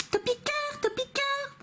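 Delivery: cute, very high creature voice; Topiqueur. Retold or imitated. Vlogger imitating a Pokémon, cute squeaky voice. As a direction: squeak the name sweetly. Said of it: "il a une voix mignonne".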